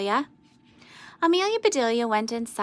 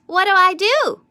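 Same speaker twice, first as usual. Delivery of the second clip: raised, higher, louder question; Amelia's eager question; 9 semitones higher, 9 dB louder than usual. A narrator's reading. Amelia Bedelia asks the boys her job, high and eager. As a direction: ask it brightly, a little lost.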